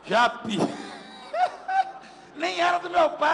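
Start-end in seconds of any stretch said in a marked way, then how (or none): 0.6-2.0 high-pitched burst of laughter; laughing. Real, not acted. Pastor amused by the donkey's name, laughing high. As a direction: laugh out at your own joke. Joking about the donkey Japi.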